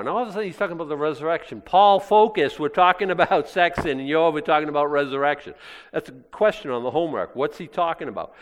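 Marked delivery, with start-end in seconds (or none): 1.6-5.5 mock scolding Paul. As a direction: tease Paul like a distracted student. Preacher teasing Paul's digression.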